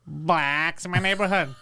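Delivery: drawn-out mock Boston local; slow it into a Boston caricature; Boston accent. Joking about what Boston is, mock Boston accent. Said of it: "Boston is".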